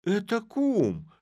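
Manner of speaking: high, slow startled exclamation; startled cry. A narrator's reading. Kum recognising his friend, a slow high startled cry. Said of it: "вскрикнул".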